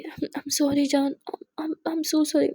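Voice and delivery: slow, stumbling sorry; pleading apology. Acted. Aadhya slowly begging Muskan's forgiveness after yelling. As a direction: drag out the apology, faltering.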